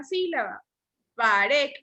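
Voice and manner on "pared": Pared with RED stressed; stress on last syllable. Shown as a demonstration. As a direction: lean on the final syllable of Pared. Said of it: "lleva el acento en la última".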